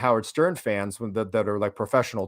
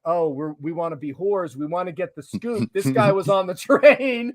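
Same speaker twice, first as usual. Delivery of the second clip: eager, drawn-out mock plea; mock the news desk begging for the scoop; mock greedy newsroom; 5 semitones higher, 3 dB louder than usual.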